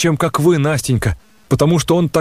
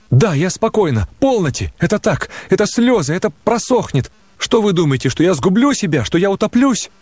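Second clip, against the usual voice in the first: put-on lightly higher girl's voice, a touch of tears; insisting she is calm though weeping; tearful young woman; 5 semitones higher than usual. Nastenka through tears.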